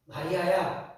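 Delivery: "마리아야" said softly and lovingly, like a dear one's name; tender call. Acted. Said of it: "예수님이 뭐라고 불렀냐면".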